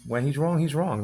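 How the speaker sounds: soft, final restatement; quiet firm repeat. Shown as a demonstration. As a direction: drop the volume and say it flatly.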